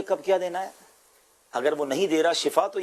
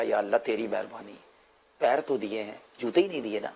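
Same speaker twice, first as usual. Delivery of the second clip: softer, lower, tearful grateful prayer; tearful thanks; 8 semitones lower, 4 dB quieter than usual. Retold or imitated. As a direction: quietly thank God through tears. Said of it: "ہاتھ اٹھائے اور رونے لگے". (آہستہ، نم آواز میں شکر گزار دعا)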